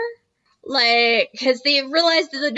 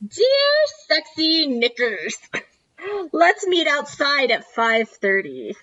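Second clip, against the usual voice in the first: slow, deliberate mock love-letter voice; drawn-out note reading; 3 semitones higher, slower than usual. Co-host reads out a character's secret love note, drawn-out. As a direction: read it out slowly, savoring each word.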